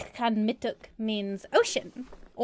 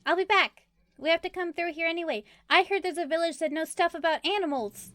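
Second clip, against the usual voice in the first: higher, in-character promise; reassuring; 6 semitones higher, faster than usual. Acted. Promising a tearful friend to return, lightly reassuring. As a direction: pitch it up to comfort her.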